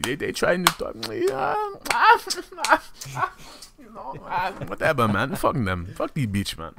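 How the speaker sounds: put-on light Haitian accent with a high squeal in the middle; a mild Haitian accent for a crude uncle. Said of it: "I'm doing a Haitian accent".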